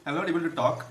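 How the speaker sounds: numb tongue from chilli, slurred; thick tongue lisp. Real, not acted. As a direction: talk with a numb, burning tongue. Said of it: "the one side of my tongue is numb".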